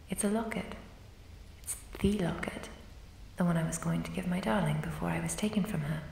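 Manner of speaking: breathy confiding whisper. Acted. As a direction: whisper the memory close to the ear. Ghost confessing her lost love.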